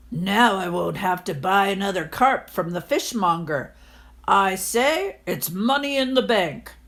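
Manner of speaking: lightly voiced pleased old miser; smug landlord. Landlord pleased about fish in his head, mild smugness. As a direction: gloat a little over the free fish.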